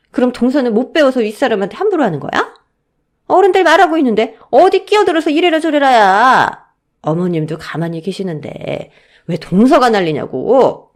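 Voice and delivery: outraged elder sister-in-law; angry berating. Acted. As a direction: put the junior in-law in her place, loudly.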